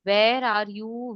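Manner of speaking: slow example. Shown as a demonstration. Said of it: "understanding how to say where".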